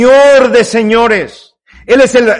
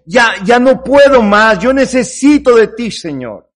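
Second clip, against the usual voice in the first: kneeling plea; 3 semitones higher than usual. Acted. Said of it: "es un decir".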